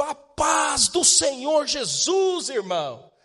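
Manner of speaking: loud, high-pitched, drawn-out shout. Retelling how a visiting pastor greeted a brother from far away: imitating a pastor shouting. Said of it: "ele gritou".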